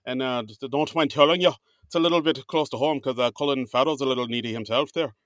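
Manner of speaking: put-on light Irish accent for the host; a gentle, lightly done Irish brogue. Host retold to cohost in a light Irish accent. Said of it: "are we gonna do this Irish accent for the entire episode?".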